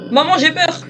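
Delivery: lightly voiced high frightened kid; playfully whining like a scared child; scared little child. Plays scared child calling mum.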